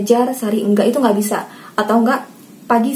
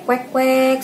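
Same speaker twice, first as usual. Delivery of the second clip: two little "kwek" quacks; imitated duck quack; 3 semitones higher than usual. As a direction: mimic a duck for a child. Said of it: "Terus suara bebek". (menirukan suara bebek)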